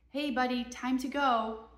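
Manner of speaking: put-on slow, sing-song call to a toddler; calling to a child. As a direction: draw it out to coax him over. Mom calling child at park.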